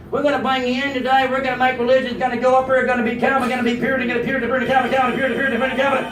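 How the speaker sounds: steady monotone rapid patter; rattled-off mock recruiting. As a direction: rattle it out without a breath. Imitates excited men in Afghanistan.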